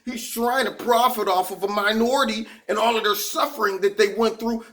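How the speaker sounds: mock liberal media. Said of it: "The liberal media would fall out".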